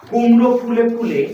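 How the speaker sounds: measured recital of a verse line; poem recitation. Shown as a demonstration. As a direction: model the line for pupils to repeat. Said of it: "যে কোনো তিনবার বলবো".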